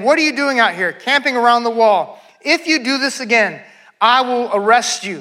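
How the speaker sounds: a touch of sharpness in the quoted threat; mild sharp rebuke. Retold or imitated. Nehemiah warns merchants camping outside the wall, mildly sharp rebuke. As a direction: read as a firm warning. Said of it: "I spoke sharply to them".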